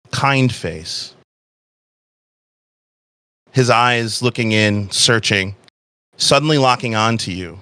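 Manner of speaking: measured storytelling with long pauses; game master narration. A narrator's reading. Game master describing a tense reunion, measured narration.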